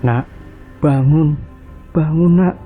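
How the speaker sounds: high, urgent, frightened calling; panicked mother. Acted. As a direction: shake them awake in panic. Mother wakes sick children.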